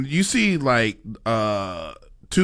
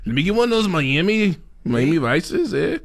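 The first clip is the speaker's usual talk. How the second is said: put-on Spanish-accented Miami; 3 semitones higher than usual. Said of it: "do you have to say it with, like, an accent?".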